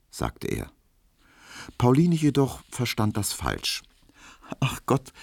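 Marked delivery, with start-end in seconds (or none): 4.6-5.1 higher, bashful little sigh; a shy, embarrassed smile in the voice. Acted. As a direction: Pauline bashfully answers Emil, smiling. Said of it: "lächelte verschämt".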